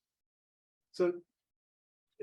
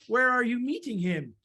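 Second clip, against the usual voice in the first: higher questioning fox voice; inquisitive fox; 4 semitones higher than usual. Acted. Fox asks the mouse about the meeting, inquisitive. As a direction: lift the question as a curious fox.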